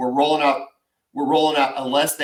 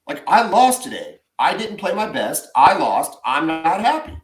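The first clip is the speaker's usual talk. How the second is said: imitating daughter; 3 semitones higher than usual. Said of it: "She's like".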